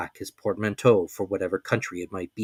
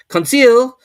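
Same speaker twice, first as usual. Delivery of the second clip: calling out; 14 semitones higher, 13 dB louder than usual. A narrator's reading. Calling servant again.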